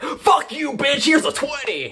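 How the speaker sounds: high, cheeky squeaky retort; mock defiant Tanjiro. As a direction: toss the insult off in a high, bratty voice. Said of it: "And Tanjiro's like".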